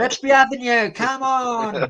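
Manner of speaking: high-pitched rallying cry to the crowd; Delia Smith. Retold or imitated. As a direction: imitate a tipsy club owner urging on fans. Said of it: "Delia Smith".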